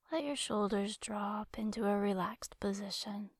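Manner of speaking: calm guided-imagery voice with long pauses between phrases; guided relaxation. Acted. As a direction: lead a listener into rest, leaving space to breathe. Leads guided relaxation exercise.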